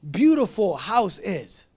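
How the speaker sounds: "Beautiful" first and stressed, slow; slow demo of fronted "Beautiful"; Greek word order. Shown as a demonstration. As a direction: lean on "Beautiful", drawn out. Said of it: "I would say".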